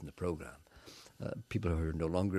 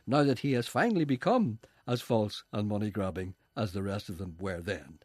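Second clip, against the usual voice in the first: mock documentary narration. Third-person mock documentary narration.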